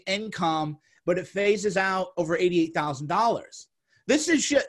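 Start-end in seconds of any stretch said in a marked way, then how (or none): 4.1-4.7 angry outburst. Real, not acted. Angry outburst about relief check.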